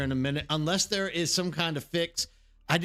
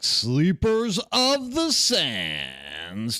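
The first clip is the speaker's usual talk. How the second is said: a slow, much lower announcer greeting; deep stream intro; 8 semitones lower, 4 dB louder, much slower than usual. Acted. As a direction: draw the welcome out, deep and slow like a show opener.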